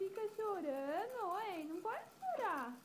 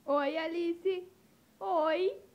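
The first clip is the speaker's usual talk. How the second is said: loud greeting; 10 dB louder, slower than usual. Real, not acted. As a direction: call hello across the room. Greeting baby loudly. (chamando o bebê bem alto)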